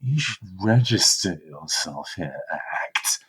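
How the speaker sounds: condescending android, trailing into a whispered name; smug, superior. Acted. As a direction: instruct them as if they are beneath you. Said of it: "thinks themselves as above you".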